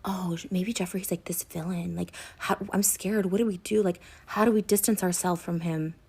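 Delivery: whispered, imitating a scared friend; a hushed, mock fearful imitation of Shane. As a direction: whisper it like a frightened gossip. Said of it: "Shane also saying to me".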